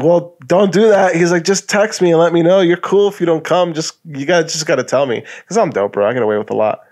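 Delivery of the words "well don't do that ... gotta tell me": manager voice. Retold or imitated. Manager to no-show worker, lightly voiced lecture.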